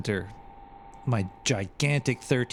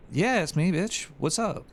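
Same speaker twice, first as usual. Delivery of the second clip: mock reply; 9 semitones higher than usual. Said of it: "And I'm like".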